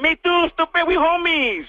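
cheery homie voice. Acted. Mock Mexican-American voice.

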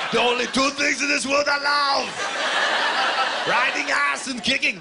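high, loud mock bellow; hammed-up high-pitched shouting; botched hero line. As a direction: yell the movie line way over the top. Mocking redelivery of movie line.

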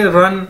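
"रन" like English run; careful teacher's "रन"; demonstrated pronunciation. Shown as a demonstration. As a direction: model "रन" as one syllable. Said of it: "इसको कैसे बोलेंगे".

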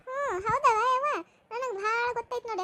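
tearful sobbing. Acted. Aunt sobs over the quarrel. (ಅಳುತ್ತಾ ನಿಧಾನವಾಗಿ)

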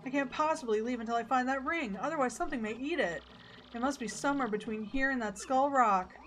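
a hint of a fussy wife; lightly voiced lovesick wife. Voices Francesca in cutscene.

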